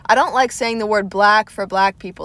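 Southern accent again, showing it off; said a second time, Southern accent on display. Shown as a demonstration. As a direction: lean a little into the Southern accent. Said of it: "do you see my accent when I even say".

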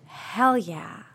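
hushed excited hell yeah; quick whispered hell yeah; whispered cheer. Acted. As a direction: cheer under your breath. Excited whisper among friends.

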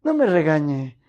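laughing through a mock plea, slowish; joking with the grumpy waitress, laughing as you plead. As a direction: giggle while begging her not to scold you. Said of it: "Así le decía".

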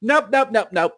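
high, loud, sharp refusals; loud nope. Retold or imitated. Shutting down Chris explaining ladyboys, loud and high. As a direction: shut it down fast, a loud nope. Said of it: "and I was like".

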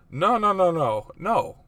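high, loud hasty backtracking; hammed-up frantic reassurance; mock panicked denial. Husband backtracking to his offended wife, mock panic.

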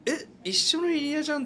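high surprised realization; surprised discovery. Retold or imitated. Retold surprised remark.

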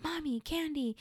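a hint of a little kid asking mom; toddler's demand.

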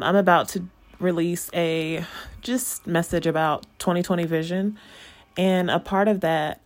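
breathless after running upstairs; out of breath. Real, not acted. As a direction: talk while catching your breath. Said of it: "I'm out of breath".

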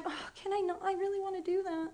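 soft, sugary fake-eager voice; mock eager. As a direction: put on a sweet, too-willing act. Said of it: "get like".

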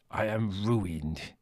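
slow, hollow voice of doom; sepulchral despair. A narrator's reading. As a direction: intone it like a funeral. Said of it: "he said sepulchrally".

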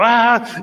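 grito agudo imitado. Retold or imitated. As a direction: suelta un quejido fuerte actuado. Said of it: "empieza a gritar otra vez". (alarido de papá, en imitación)

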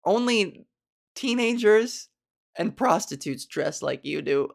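slow, deliberate blunt judgement; imitated blunt remark. Audience woman judging the comic's outfit, imitated bluntness. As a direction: lay it down bluntly, word by word, imitating her. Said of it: "she said this pretty bluntly".

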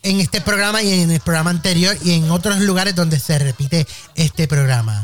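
mock formal address. Addresses podcast listeners.

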